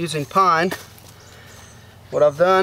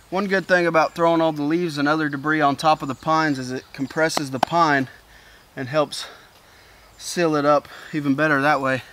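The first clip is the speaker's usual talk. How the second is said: breathless, talking between breaths. Real, not acted. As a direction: speak while catching your breath. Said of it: "I'm out of breath".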